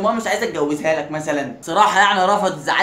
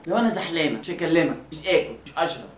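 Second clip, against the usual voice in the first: put-on whiny girl voice; 4 semitones lower, 5 dB quieter than usual. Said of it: "خنفه او بتتمحن وتتسهوي".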